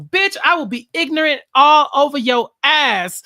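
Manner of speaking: imitating a loud, heated comeback; hammed-up loud trash talk; mock angry retort. One contestant throws an insult back at another, mock angry.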